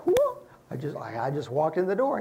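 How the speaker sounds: startled customer. Retold or imitated. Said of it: "you'll be like".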